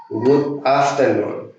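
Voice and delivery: Good afternoon drawn out slowly; slow English model. Shown as a demonstration. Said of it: "puedo decir una expresión distinta". (modelo lento de Good afternoon)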